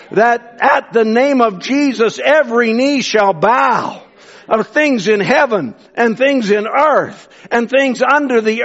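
slow, weighty preaching; scripture proclamation. Acted. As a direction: proclaim each phrase with drawn-out emphasis.

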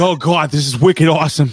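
high, mock New England accent; New England girlfriend. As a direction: imitate the ex's New England talk up high. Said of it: "She was like".

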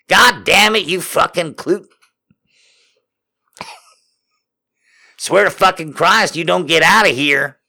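high, indignant character voice; exasperated scolding. Acted. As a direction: chase him out in mock outrage. Honeybee keeps scolding Harold.

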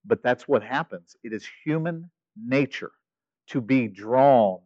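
careful. Real, not acted. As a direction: ease down as if treading carefully. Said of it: "I gotta be super careful how I say this".

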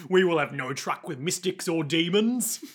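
slow, put-on Cockney guard; amateur Cockney officiousness. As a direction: pronounce it slowly in mock Cockney. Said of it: "deserves the Cockney accent".

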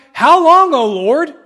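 loud, high cry of a grieving psalmist; anguished lament cry. Acted. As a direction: plead with God, raising your voice. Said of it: "Things like".

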